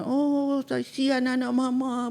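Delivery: high, drawn-out motherly sympathy; pitying mother. Acted. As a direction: coo over a child who fell. Acting a mother pitying fallen child.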